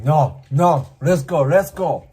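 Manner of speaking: loud mock urging; insisting. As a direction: drag them along with it. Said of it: "he's like".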